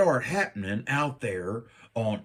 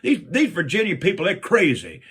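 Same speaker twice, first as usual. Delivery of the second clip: laughing exasperation; 5 semitones higher, 5 dB louder than usual. Retold or imitated. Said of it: "I'm like".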